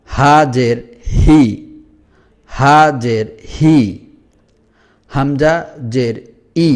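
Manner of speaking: হা জের হি drawn out slowly; slow drill. Shown as a demonstration. Teacher slowing down for students, slow. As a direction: stretch হি out for the learners. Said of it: "এই দুটি হরফই একটু ভিন্ন রকমভাবে পড়তে হয়".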